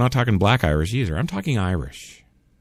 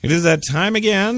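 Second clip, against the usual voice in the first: announcer shout; 7 semitones higher than usual. Acted. Announcing sign-off time.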